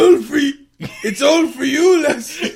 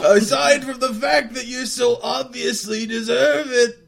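bad Scottish accent; 4 semitones higher, 5 dB louder than usual. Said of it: "oh, bad accent".

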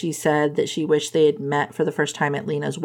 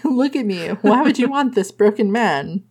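a higher, hammed-up pitiful voice; mock self-pity; 4 semitones higher than usual. The speaker claiming he has nothing to offer, in hammed-up self-pity. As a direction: oversell the woe, then the joke.

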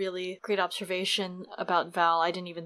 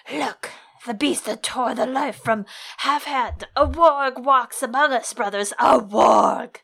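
hammed-up slow melodramatic denunciation; ridiculous overacted outrage, building to a loud finish; Lord Janos; 2 semitones higher, 3 dB louder, slower than usual. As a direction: draw out every word, swinging from hushed to booming. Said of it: "go the extra mile and be ridiculous".

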